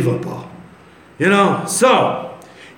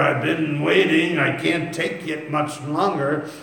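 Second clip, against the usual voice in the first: a lightly voiced sad believer whining to the Lord; mopey complaint; 3 dB quieter than usual. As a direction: sigh it out like a weary Eeyore. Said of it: "The Eeyore Christians".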